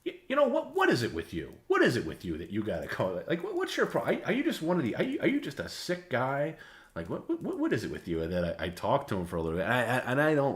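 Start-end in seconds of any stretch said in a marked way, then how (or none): 0.0-8.2 imitating exasperated host. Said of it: "And he goes".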